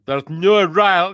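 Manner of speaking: slow, abortive stab at Northern Irish; Northern Irish impression. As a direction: attempt a Northern Irish accent, haltingly. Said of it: "with that amazing impression".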